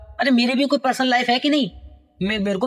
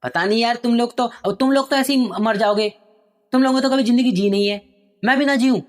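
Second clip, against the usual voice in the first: angry son; 4 semitones higher than usual. Acted. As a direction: snap at her like a spoiled son. Angry son shouting at mother. (गुस्से में चिल्लाता बेटा)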